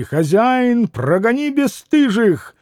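narrator's contained bellow; indignant roar. Acted. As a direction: roar for the landlord, without full volume. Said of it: "взревел вдруг пан Врублевский".

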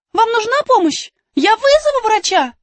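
put-on high loud caring girl; urgent call. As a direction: offer help urgently. Alice offers help urgently. (обеспокоенно)

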